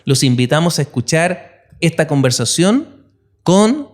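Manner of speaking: polished, read-out intro for a guest; podcast guest introduction. Acted. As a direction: present the guest like an announcer. Host reads the guest introduction. (presentación de invitado de podcast)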